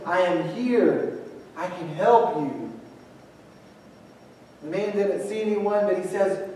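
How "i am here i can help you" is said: steady, unhurried voice from nowhere; deep voice. Acted. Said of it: "He hears this deep voice say".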